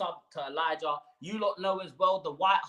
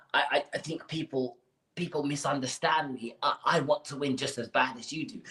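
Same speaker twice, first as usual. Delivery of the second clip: Daniel Levy impression; 3 semitones lower than usual. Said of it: "let me do my Daniel Levy impression".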